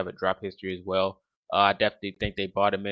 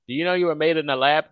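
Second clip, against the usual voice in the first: raised, louder voice of amazement; awed first reaction; 7 semitones higher, 7 dB louder than usual. Retold or imitated. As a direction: quote your own astonished first thought, higher and louder. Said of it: "when you see him, he's like".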